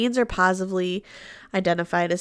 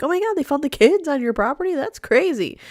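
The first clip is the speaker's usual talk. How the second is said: mock disbelief; 7 semitones higher, faster than usual. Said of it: "They didn't really say, like".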